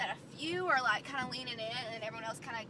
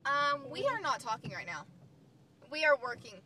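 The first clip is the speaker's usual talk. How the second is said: louder, firm classroom reminder; firm teacher voice; 2 semitones higher, 6 dB louder than usual. Acted. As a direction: set the class straight.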